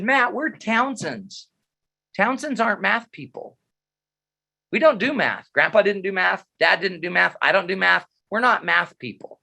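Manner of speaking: a hint of a mother laying down the family rule; imitating mom. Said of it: "She said".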